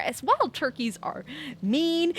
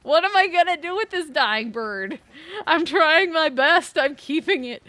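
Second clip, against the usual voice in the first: mock distressed self; 5 semitones higher than usual. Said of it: "And then it's like".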